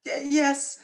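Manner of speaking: ticklish squeal. Acted. She-wolf tickling his neck.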